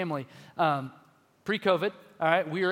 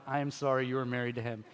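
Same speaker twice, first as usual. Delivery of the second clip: pitying bystanders; 5 semitones lower, 5 dB quieter, faster than usual. Retold or imitated. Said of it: "looks at my wife like".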